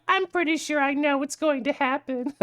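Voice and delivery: high, teasing little self-quote; mock knowing reaction. Streamer recalling reaction to VTuber announcement, high mock voice. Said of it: "I'm like".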